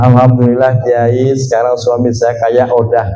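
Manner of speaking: low, soft imitation of a relieved wife; lightly voiced wife reporting good news; grateful wife's message. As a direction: quote her thanks, dropping pitch and volume. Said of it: "Besoknya istrinya W A".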